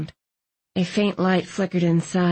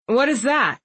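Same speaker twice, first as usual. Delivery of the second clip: mildly puzzled, higher question; understated bafflement, raised pitch; confused; 6 semitones higher than usual. A narrator's reading. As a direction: ask it with a touch of confusion. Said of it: "Sam asked, confused".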